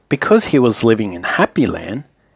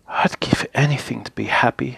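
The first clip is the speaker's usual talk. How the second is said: softer, gloomy sigh of a line; mild mope, lightly voiced; a touch miserable; 5 dB quieter than usual. Mister Miserable answers Mister Happy, softly miserable. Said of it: "he added miserably".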